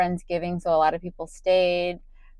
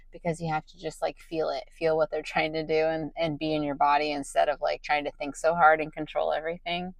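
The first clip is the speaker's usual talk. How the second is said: tired voice. Real, not acted. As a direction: sound exhausted at midnight. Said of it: "you can hear my tired voice so bad right now".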